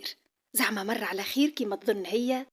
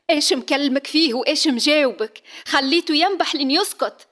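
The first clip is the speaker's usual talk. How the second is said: angry shout; 5 semitones higher, 7 dB louder than usual. Acted. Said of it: "ومنها صاح".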